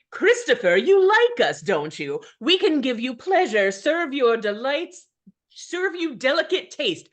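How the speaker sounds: imps in chorus. Acted. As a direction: lure him like scheming imps. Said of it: "And then together".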